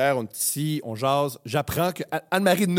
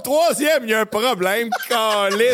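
laughing; 7 semitones higher, 5 dB louder, slower than usual. Real, not acted. Cracking up at friend's line.

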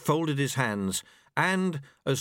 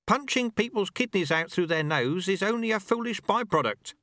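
higher, gently mocking old master; a wry old sweeper teaching his apprentice; old monk Lu Tse; 8 semitones higher than usual. A narrator's reading. Old master speaks to the dojo monks, wry.

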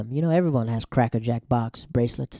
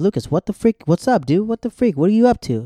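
higher, louder, animated demanding; mock confrontation; 7 semitones higher, 6 dB louder than usual. Haley pulls up on Lucas, acted-out loud confronting. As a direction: imitate a girl accosting a friend, pitched up.

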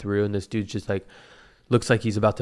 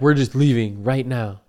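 slightly louder, imitating an annoyed walkout; half-yell it as a retold complaint; mild mock yelling; 5 dB louder than usual. Lady walking out of urgent care, mild imitated yell. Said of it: "She's, like, kinda yelling".

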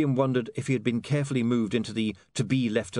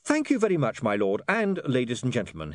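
bright opening pitched high; breezy cheerful thanks; 4 semitones higher, 3 dB louder than usual. Acted. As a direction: wrap it up cheerily, starting high. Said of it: "he said cheerfully".

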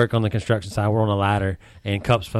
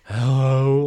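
out of breath; 3 semitones higher than usual. Retold or imitated. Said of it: "like he's been out of breath for five minutes".

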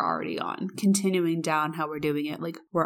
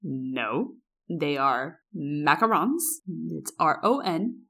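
mock snooty chef setting the waitress straight; haughty correction; 2 semitones lower, slower than usual. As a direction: lecture her like a snob. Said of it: "And my friend goes".

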